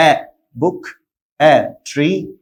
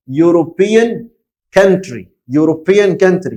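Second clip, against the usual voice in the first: slow model read. Shown as a demonstration. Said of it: "اقرا لي يلا".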